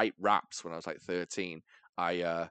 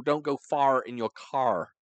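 slowed-down imitation of an American; lightly exaggerated American vowels on "far" and "car"; mock American accent; 2 semitones higher than usual. Teasing an American friend, mock American accent. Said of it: "that's how you sound".

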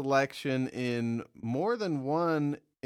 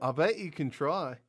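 shaky attempt at an Australian accent; amateur mock-Australian accent. Shown as a demonstration. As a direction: do a bad Aussie accent, drifting toward English. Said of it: "ready for the Australian accent".

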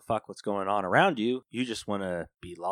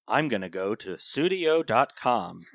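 ad read voice; 6 semitones higher, 6 dB louder than usual. Pretend. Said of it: "Can you use it in a sentence".

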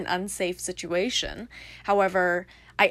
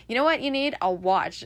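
teasing friend; 4 semitones higher, 4 dB louder than usual. Retold or imitated. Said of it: "then he goes".

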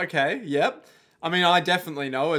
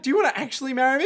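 put-on high girlish voice; 9 semitones higher, much faster than usual. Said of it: "She's just there like".

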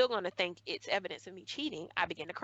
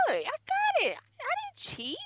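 high, loud pleading through tears; desperate teenage plea; crying plea; 4 dB louder than usual. Retold or imitated. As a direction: beg her to believe you, near sobbing. Pleading with teacher while crying.

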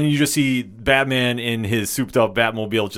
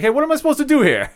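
high, fast, put-on cry of complaint; mock helpless protest; 4 dB louder, much faster than usual. Penguin left tied up and hanging, high mock protest. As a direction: imitate a stranded crook calling after his captors.

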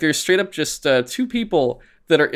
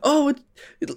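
much higher put-on voice, halting and unsure; polite girl, halting; 11 semitones higher than usual. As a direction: imitate a shy girl groping for English words. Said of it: "she's just kinda like".

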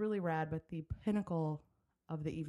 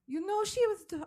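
French accent; 9 dB louder than usual. Shown as a demonstration. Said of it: "I'm not even gonna do a French".

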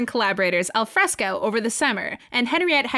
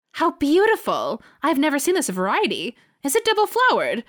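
delighted gushing; 3 semitones higher than usual. Acted. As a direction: gush over the flowers. Granger gushing over roses.

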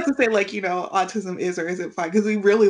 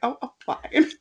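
laughing reassurance; 4 semitones higher than usual. Retold or imitated. Her own reply after falling.

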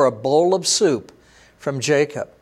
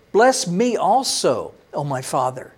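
slow pleading. Acted. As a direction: draw the plea out, then let it sink away. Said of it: "Esau lifted up his voice and he cried".

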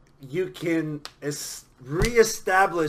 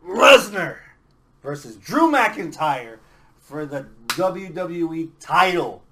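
slow drawn-out match announcement; ring announcer; 8 dB louder, slower than usual. Pretend. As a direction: announce it like a big-fight MC.

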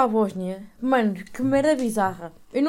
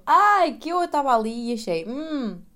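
high excited squeal; 5 semitones higher, 5 dB louder than usual. Retold or imitated. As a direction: squeal with delight, then trail off. Her reaction retold.

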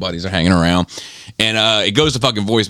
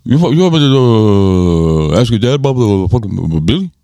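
high put-on old-buddy voice, slow and louder; Joel's voice; 3 semitones higher, 4 dB louder than usual. Friend imitating Joel asking about his dad. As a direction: drag it out like a rough old guy. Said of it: "He talks like this".

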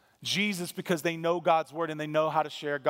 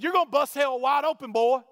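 shouted, much higher and louder; angry street preacher; 8 semitones higher, 5 dB louder than usual. Retold or imitated. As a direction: yell it at him with a finger in his face. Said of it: "And he said".

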